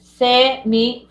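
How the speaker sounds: "Semi" split into se, mi with a gap; syllable by syllable. Shown as a demonstration. Teacher checking a pupil's split, "Semi" syllable by syllable. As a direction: draw out "Semi" in two syllables. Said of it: "Separa semirregular".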